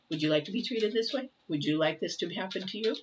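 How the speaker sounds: a hint of a scolding grandmother; lightly voiced mother giving a lesson; motherly voice. Reader to viewers, a light mock motherly scold. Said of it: "Now I sound like a mother or a grandmother".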